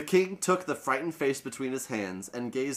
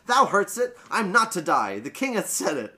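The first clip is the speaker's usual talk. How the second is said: joyful exclaiming; 5 semitones higher, 3 dB louder than usual. Acted. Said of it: "turned a joyful face ... and exclaimed".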